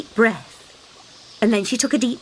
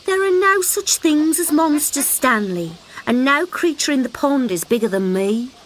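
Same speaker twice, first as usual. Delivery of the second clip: high mother voice, mildly scolding; scolding mother frog; 5 semitones higher than usual. Acted. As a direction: tell the child off lazily.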